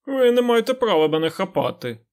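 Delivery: a cornered beggar whimpering his protest; whining beggar. A narrator's reading. Captured beggar whines at the lord, pitched high. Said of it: "заскиглив Замурза".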